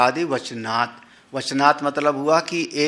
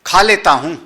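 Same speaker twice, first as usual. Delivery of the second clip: a touch louder, eager खा लेता हूँ; willing tone; 3 semitones higher, 6 dB louder than usual. Shown as a demonstration. Teacher showing a glad tone that pleases the cook. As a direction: say it gladly. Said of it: "दिल कैसा होगा".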